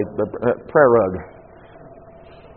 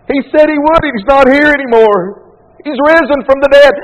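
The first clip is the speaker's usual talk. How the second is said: higher and louder, climbing with conviction; fervent preaching shout; 11 semitones higher, 6 dB louder than usual. Acted. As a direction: proclaim it like a revelation. Preacher quotes John, full force.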